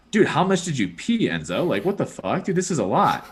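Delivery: mock-exasperated questioning; retold disbelief. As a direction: replay your astonishment at the mess. Retells scolding dog over puddle.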